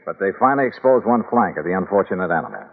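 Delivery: steady, dry detective voice-over; hard-boiled narration. A narrator's reading. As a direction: tell the case like an expense report. Detective narrating case over music.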